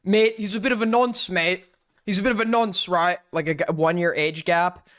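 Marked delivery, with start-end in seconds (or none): 0.0-3.2 lightly voiced mate-heavy British commentator; a touch of London bloke, jokey; mock British commentator. Mocking old commentary drama, a light British bloke voice. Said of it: "flashbacks to old commentary".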